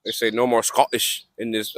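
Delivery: half-hearted attempt at a Scottish accent; bad Scottish accent. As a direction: try a Scottish accent and miss it. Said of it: "that was a bad accent".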